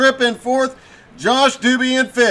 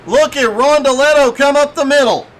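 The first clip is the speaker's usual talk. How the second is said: excited; 2 semitones higher, 4 dB louder than usual. Real, not acted. Call of a power move.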